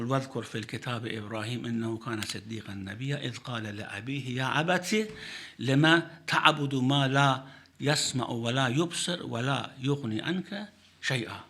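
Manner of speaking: fast, fluent Quranic recitation. Acted. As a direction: chant the verse briskly, reverently.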